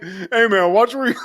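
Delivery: high, laughing nerdy guy; lightly voiced nerdy guy. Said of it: "it's so fucking nerdy".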